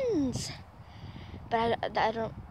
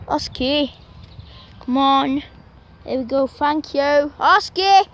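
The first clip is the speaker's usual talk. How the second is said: calling the dog; 3 semitones higher, 8 dB louder, slower than usual. Real, not acted. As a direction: get the dog's attention fast. Calling dog near road.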